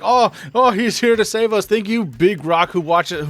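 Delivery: lightly voiced fawning elder; mock Cragnon leader. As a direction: gush over the hero in a silly put-on voice.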